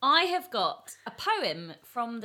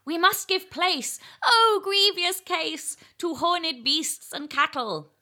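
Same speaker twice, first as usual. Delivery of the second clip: slow, high declaiming, rising to a crescendo; dramatic eel's battle cry, drawn out and growing louder; small-eyed eel voice; 4 semitones higher, 9 dB louder than usual. Acted. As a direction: recite as a tiny-eyed eel, building to a shouted finish. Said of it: "as if your eyes are really small".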